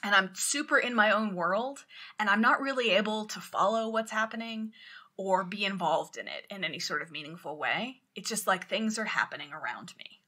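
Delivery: drifting, detached voice trailing off into a whisper; zoned-out captain mumbling on the phone; spaced-out stoner. Retold or imitated. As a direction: sound like you're high and barely there. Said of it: "The captain sounds like I sound when I'm high".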